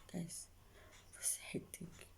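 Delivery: breathy dramatic whisper. Real, not acted. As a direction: drop to a secret whisper. Repeated dramatic confiding aside.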